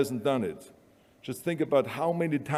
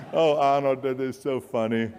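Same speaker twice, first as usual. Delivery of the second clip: amused, dismissive Hollywood agent; mocking agent. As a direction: laugh off a silly idea. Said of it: "their reaction was".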